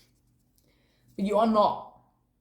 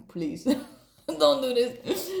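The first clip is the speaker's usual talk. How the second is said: high, slow plea broken by laughter; laughing plea; 6 semitones higher, slower than usual. Retold or imitated. Pleading with oneself to stop the accent, laughing plea. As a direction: beg through a laugh, pitched up. Begging self to drop accent.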